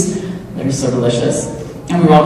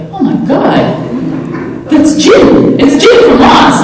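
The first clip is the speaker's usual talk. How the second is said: starstruck excitement; 12 semitones higher, slower than usual. Retold or imitated. Actor meets Jim from Lost, high excited gushing. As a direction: gush like a starstruck fan. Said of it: "I was like".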